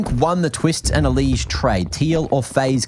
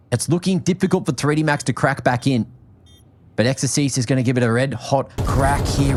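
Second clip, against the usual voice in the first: live esports casting; play-by-play commentary. Acted. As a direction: call the round as it unfolds.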